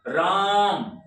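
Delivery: राम with the weight on रा; stress on राम. Shown as a demonstration. Teacher demonstrating letter stress, weight on the रा of राम. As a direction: lean hard into रा in राम, ease off on म. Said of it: "रा पर ज्यादा जोर पड़ा".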